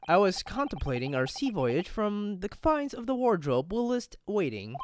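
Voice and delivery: a hint of a grandiose detective; lightly voiced eloquent detective. Detective explains his wardrobe rest, lightly theatrical. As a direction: read it as a mildly theatrical sleuth.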